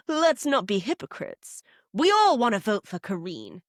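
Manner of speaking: lightly voiced crypto bro; mock round-table appeal, lightly hammed up; Eunice, crypto bro. Crypto bro calling out hypocrites, mildly theatrical. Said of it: "Crypto bro Eunice".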